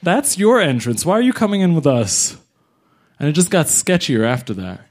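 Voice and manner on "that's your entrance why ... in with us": exasperated challenge. Retold or imitated. Challenges lawyer at wrong entrance.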